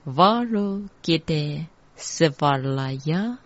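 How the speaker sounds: measured mantra demonstration; joined-up mantra reading. Shown as a demonstration. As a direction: recite syllables in connected groups. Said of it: "第三句再一次".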